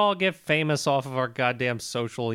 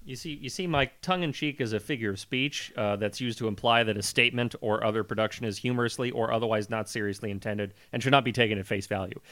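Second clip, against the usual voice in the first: mock lecture; 6 semitones lower, 6 dB quieter than usual. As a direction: explain it down to him, softly.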